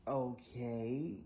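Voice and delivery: drawn-out, loud, rising okay; a pointed okay, half question; sarcastic okay. Retold or imitated. Rider answering the stubborn driver, pointed rising okay. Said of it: "I did one of those".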